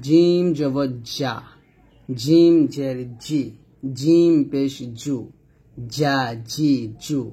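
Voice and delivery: slow, firm j in "জিম, জা, জি, জু"; strong, firm "জিম". Shown as a demonstration. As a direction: press mid-tongue to palate for a solid "জিম". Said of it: "শক্ত এবং মজবুত আওয়াজে জিম উচ্চারণ".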